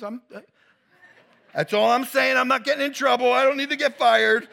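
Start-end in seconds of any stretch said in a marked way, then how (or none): 1.5-4.5 laughing protest. Real, not acted. Joking he'll get in trouble.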